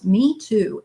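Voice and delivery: usual speaking voice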